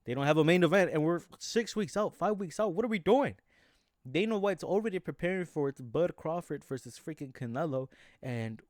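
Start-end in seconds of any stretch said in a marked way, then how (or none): 0.1-6.6 louder and higher, fed-up disbelief; rising frustrated rant; exasperated outburst. Real, not acted. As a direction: vent it like you can't believe it. Frustrated rant about missing main event.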